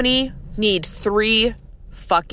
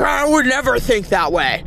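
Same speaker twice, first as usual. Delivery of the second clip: mock naysayer. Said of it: "the one naysayer that's like".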